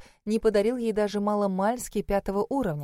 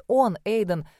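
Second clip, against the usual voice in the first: ordinary delivery, nothing marked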